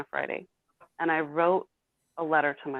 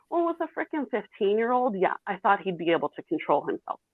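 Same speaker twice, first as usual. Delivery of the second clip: indignant retort; 5 semitones higher than usual. Real, not acted. Angry reply to elders' blame.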